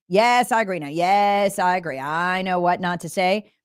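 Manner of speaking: flat, dazed zombie drone. Pretend. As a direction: recite it like a brainwashed zombie. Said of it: "Say it like a zombie".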